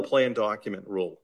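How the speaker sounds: Boston accent, "plan" sounds almost like "plain"; Boston accent slipping into "plan". Real, not acted. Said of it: "It's that Boston accent comes out once in a while".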